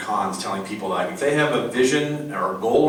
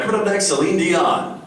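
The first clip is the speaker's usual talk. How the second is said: radio DJ voice; 6 semitones higher than usual. Retold or imitated. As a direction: sell the station like a cheesy DJ. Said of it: "he turns the microphone on".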